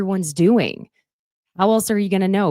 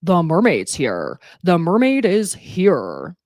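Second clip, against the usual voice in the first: announcing; 4 dB louder, slower than usual. Retold or imitated. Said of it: "announcing over and over".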